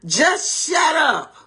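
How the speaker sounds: high, slow, cutting "shut up"; rude dismissal. Pretend. Spouse silencing their partner, curt and rude. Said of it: "number three".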